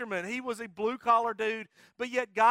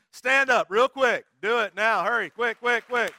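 urgent call; 7 dB louder than usual. Real, not acted. Pastor urging volunteers to stand.

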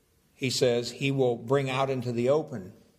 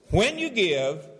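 "when you give" stressed, rising on "you"; emphatic when; 5 semitones higher, slower than usual. Shown as a demonstration. Pastor stressing to congregation, emphatic. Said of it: "So he doesn't say".

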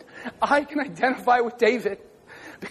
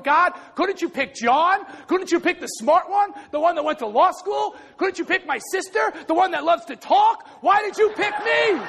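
pleading with God; 4 semitones higher than usual. Retold or imitated. Preacher retelling his plea to God, high and pleading. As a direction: beg God, rising higher each line. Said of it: "I'm going".

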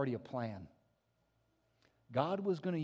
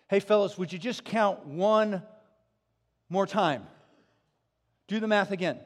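louder, pressing call to recount; loud urging; 4 semitones higher, 10 dB louder than usual. Acted. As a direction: call the disciples to count again. Jesus voiced telling disciples recount.

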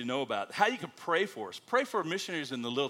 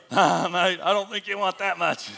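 put-on loud, higher Australian-accented reply; Australian butcher; 5 semitones higher, 10 dB louder than usual. Butcher answering the missionary's sausage order, loud Australian accent. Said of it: "The butcher goes".

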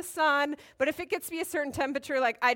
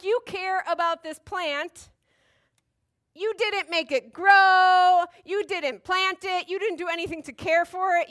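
God; 4 semitones higher, 6 dB louder than usual. Acted. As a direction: stretch the words, higher, chiding. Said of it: "God's like".

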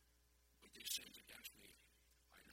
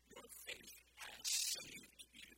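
slow, loud, solemn declaration; slow loud proclamation; 8 dB louder, slower than usual. Acted. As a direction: pronounce it slowly like a blessing. Voicing Jesus, slow and loud.

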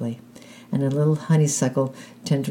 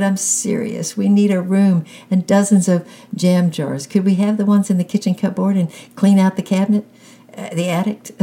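higher and louder, pleading and insistent; eager shouting; 6 semitones higher, 6 dB louder than usual. A narrator's reading. Boy begging mom for jars and the attic, eager shout. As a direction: push hard to be taken seriously. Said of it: "he shouted".

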